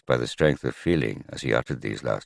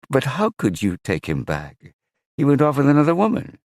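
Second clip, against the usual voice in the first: higher, louder and faster in disbelief; indignant outburst; 12 semitones higher, 6 dB louder than usual. Acted. Magnus outraged that Ingalif took her husband back. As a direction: fire it back at her, appalled.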